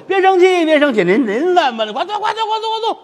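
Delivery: high, eager fawning plea to sit; fawning waiter. Acted. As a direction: coax him back into the chair, all smiles. Waiter placating angry customer, high.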